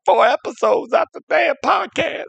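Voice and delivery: high-pitched worked-up rant; worked up, voice climbing high in complaint. Acted. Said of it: "I'm worked up now".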